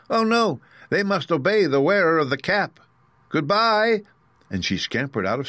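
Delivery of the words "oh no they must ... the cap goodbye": very high squeaky mouse queen; squeaky little voice. A narrator's reading. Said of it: "in her squeaky little voice".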